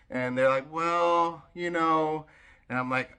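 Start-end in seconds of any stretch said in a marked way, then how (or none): 0.7-2.3 imitating insistent friends. Voicing friends pressing again.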